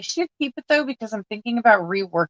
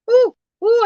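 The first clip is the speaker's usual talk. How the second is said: surprised ooh; 5 dB louder than usual. Real, not acted. Stumbles over her own sentence.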